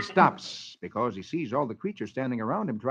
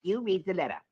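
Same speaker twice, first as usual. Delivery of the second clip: cheerful; 6 semitones higher than usual. Acted. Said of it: "smiles cheerfully and says".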